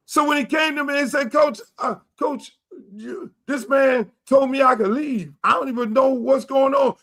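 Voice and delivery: retold with rising outrage; worked-up retelling. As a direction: tell it like it still burns you. Retold player reporting to him.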